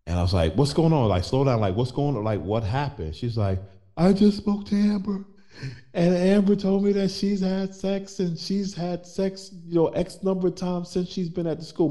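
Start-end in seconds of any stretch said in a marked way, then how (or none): 0.6-3.2 urgent, higher and louder questions; reacting to alarming news on the phone; alarmed. Husband on phone to crying wife, urgent and alarmed. Husband answers sobbing wife's call. 4.0-11.9 high, strained retelling of a tearful voice; imitating crying wife. Wife crying on phone about their daughter, imitated high and tearful. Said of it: "And she is bawling".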